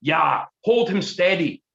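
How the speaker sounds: slow, high hissed crone voice; hissing crone. Acted. Crone gloats over captured Gordon, hissing slowly. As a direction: hiss it with slow malice. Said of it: "hissed the old crone".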